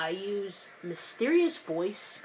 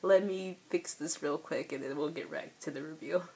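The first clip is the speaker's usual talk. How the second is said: after crying. Real, not acted. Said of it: "I'm a little teary-eyed at the moment".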